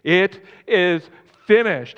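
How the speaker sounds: loud, slow mock cry; retold cry, drawn out and forceful; retold scream. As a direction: proclaim it loudly, word by word. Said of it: "he screamed".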